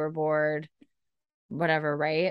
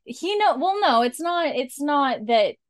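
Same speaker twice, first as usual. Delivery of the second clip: laughing; 8 semitones higher, 7 dB louder, slower than usual. Real, not acted. Laughing at friend's joke.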